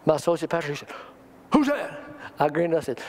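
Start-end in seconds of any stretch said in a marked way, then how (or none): 1.5-2.0 surprised question. Retold or imitated. Associate pastor startled by tongues.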